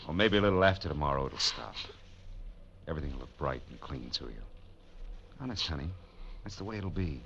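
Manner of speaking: put-on soft, gentle comforting to a frightened girl; tender reassurance. Phil soothes tearful Donna in the blizzard, soft and tender. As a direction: hush her fears, quietly and kindly.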